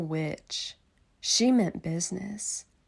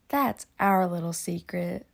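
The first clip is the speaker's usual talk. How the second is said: put-on kids' secret; 6 dB louder than usual. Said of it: "said the kids".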